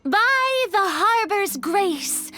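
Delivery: slow, grand recited verse; theatrical poem recital to a merchant; bardic recital. Pretend. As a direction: declaim it like a bard performing a ballad. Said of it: "I don't recall asking for a bardic song".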